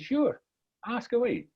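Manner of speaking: lightly voiced, easygoing invitation; obliging wise man. Wise man inviting the boy's question, obliging and soft.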